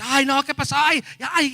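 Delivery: high, loud mock cries of alarm; imitated panicked wailing. Preacher imitates people getting bad news, mock wailing. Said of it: "empiezan a gritar y grite".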